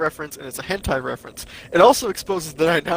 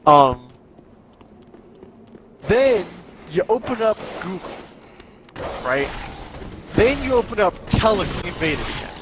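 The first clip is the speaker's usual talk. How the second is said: condescending tutorial. Pretend. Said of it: "Let me know if you need me to explain that to you".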